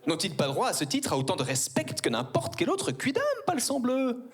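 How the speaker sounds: lightly voiced archaic little aristocrat; a hint of a precious courtly child; pompous child. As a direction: ham up an old-fashioned noble boy. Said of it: "demander à ma mère".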